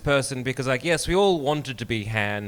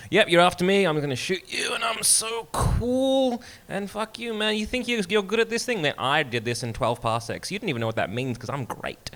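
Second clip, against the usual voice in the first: a higher, smug, swaggering rogue, drawling the cool line; cocky Han Solo; 7 semitones higher than usual. Retold or imitated. Fan plays Han Solo brushing off a rival, smug and swaggering. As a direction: show off like the coolest smuggler in the galaxy.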